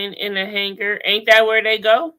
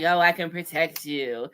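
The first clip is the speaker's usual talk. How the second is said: Crypt Keeper voice; 6 semitones lower, 7 dB quieter than usual. Retold or imitated. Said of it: "she kinda sound like the Crypt Keeper".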